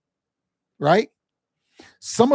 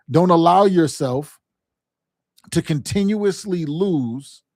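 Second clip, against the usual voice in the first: slow, each word weighed; deliberate slow warning to a struggling team; slow emphatic warning; 3 dB louder, slower than usual. Shown as a demonstration. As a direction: drive it home slowly, like a coach. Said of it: "coach repeating the key point".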